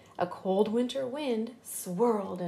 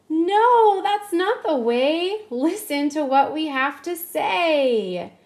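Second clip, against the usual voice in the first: put-on children yelling; 4 semitones higher, 5 dB louder than usual. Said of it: "the children yelled".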